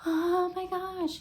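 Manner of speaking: high, drawn-out mock amazement; imitated awe. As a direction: gush in a slow, high-pitched coo. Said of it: "because I wasn't like".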